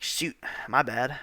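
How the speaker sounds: hushed, unvoiced "my bad"; whispered apology. Whispering a sheepish sorry to dad.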